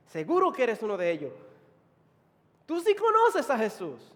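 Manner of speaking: loud, emphatic accusation; forceful crowd member calling him out; insistent accusers. Acted. Acted crowd accusing Peter.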